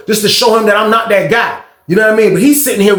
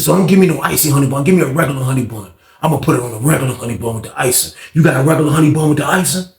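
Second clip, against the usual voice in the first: lower, fast, rattling off his order; greedy guard; 6 semitones lower, faster than usual. Retold or imitated. Guard hurriedly listing his honey bun order, low and fast. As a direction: reel off the snack list quick and low.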